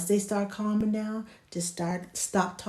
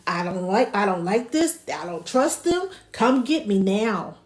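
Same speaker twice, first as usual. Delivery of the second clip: louder mock infant demand; insistent pretend wail in words; crying baby's protest; 5 dB louder than usual. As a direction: voice a baby refusing a stranger. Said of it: "that baby's gonna start crying like".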